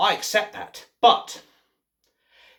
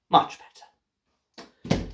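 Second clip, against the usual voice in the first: whispered relief; much slower than usual. Real, not acted. After ripping leaflet.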